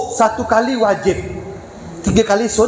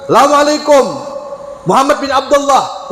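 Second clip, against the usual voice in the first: hostile greeting; 3 semitones higher than usual. Retold or imitated. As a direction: sound as if you came for revenge. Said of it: "nak balas dendam nampak dia ni".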